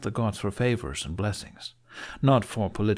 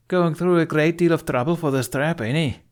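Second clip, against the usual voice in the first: higher, louder cutting-in voice; gruff Gobber; 8 semitones higher, 5 dB louder than usual. A narrator's reading. Gobber cutting into the council debate, loud. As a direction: barge in loud and high. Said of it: "Gobber cut in".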